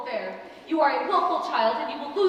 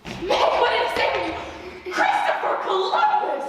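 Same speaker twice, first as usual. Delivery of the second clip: slow, breathless whispered shock; 5 semitones higher, slower than usual. Acted. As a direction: gasp the words out in disbelief. Aunt overhears shocking engagement.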